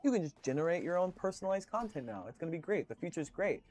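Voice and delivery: mildly mock-upbeat sales talk; lightly imitated AI evangelist. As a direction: gush lightly like a tech optimist. AI client gushing about the future.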